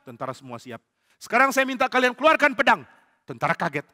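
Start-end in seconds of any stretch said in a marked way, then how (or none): 1.2-2.9 higher, louder order; king commanding soldiers; barked command. Acted. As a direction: call the troops to attention.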